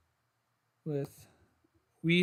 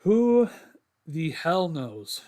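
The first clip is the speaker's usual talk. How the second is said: exasperated; 5 dB louder, much slower than usual. Real, not acted. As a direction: throw up your hands, then drag it out. Exasperated about missing news.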